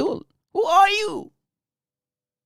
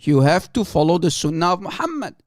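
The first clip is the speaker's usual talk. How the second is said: mock sheikh; 5 semitones lower, much faster than usual. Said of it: "he's saying to her without any shame".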